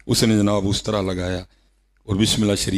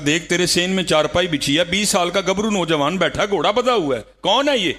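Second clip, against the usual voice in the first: rising amazement; 8 semitones higher than usual. Retold or imitated. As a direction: pitch climbing higher to the question. Neighbours' amazed question.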